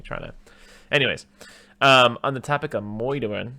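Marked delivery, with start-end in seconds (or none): 2.8-3.5 "moidering" with oy in place of ur; comic dialect pronunciation. Pretend. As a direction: say "moidering" like old-time New Yorkese. Joking mispronunciation of murdering.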